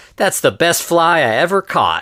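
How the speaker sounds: put-on high, upset 1950s kid voice. Retelling a film scene where a boy must free his fly: imitating an upset fifties kid. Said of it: "fifties kid".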